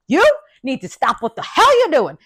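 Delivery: mother yelling. Retold or imitated. Mother confronts noisy hospital patient, angry telling-off. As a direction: lay into the lady as a fed-up mother. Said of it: "my mother yelled at the lady".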